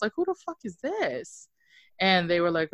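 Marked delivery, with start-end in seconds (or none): 0.1-1.5 high-pitched, softly spoken disbelief; retold bewilderment. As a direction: act out baffled disbelief in a high voice. Retelling her reply to phone call.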